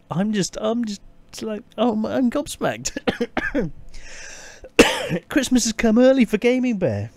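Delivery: overwhelmed and near tears, barely holding it; welling up. Real, not acted. Streamer overwhelmed by viewers' gifts, tearful and breaking. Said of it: "I'm, I'm welling up".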